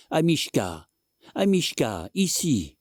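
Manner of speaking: high, urgent calls to the dog; calling out. A narrator's reading. Lady calls her dog under the bed. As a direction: cry out for the little dog.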